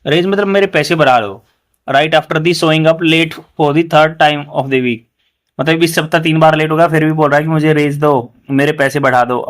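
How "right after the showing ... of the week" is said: slow example reading. Shown as a demonstration. Teacher reading the example sentence to students, very slowly. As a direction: read "he had the effrontery" very slowly, word by word. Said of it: "तो उसकी इतना दुस्साहस था".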